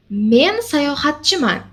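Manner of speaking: ordinary talk, nothing marked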